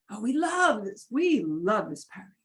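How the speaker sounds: "love" swooping up and falling; emphatic inflection. Shown as a demonstration. Teacher demonstrating inflection of the voice, stressed "love". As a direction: lean on "love" with a pitch swoop. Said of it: "we do inflection of the voice".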